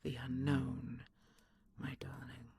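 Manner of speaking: whispered fearful confession; hushed confession. Acted. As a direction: let the fear slip out in a whisper. Confessing fear softly.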